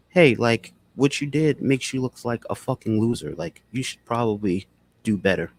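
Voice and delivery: slow, soft critique; a calm, soft-spoken telling-off; low, slow, soft. Shown as a demonstration. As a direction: say it gently and slowly, like friendly advice. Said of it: "because my tone was low".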